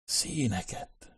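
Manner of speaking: soft, slow, drawn-out murmur of awe; hushed whisper. A narrator's reading. Nicholas peering through the hole at the colours, hushed. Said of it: "suttogta Nicholas".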